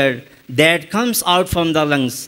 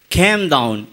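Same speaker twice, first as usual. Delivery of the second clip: lower-pitched, lightly imitated Australian accent; 4 semitones lower than usual. Shown as a demonstration. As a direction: copy an Australian scholar's accent on "Came down". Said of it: "Now he says".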